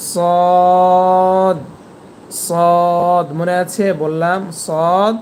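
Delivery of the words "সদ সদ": সদ said loud and heavy, emphatic s; Arabic letter demo. Shown as a demonstration. Teacher demonstrating heavy সদ to students. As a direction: give সদ a full, thick sound. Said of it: "এর পরের হরফটি হবে".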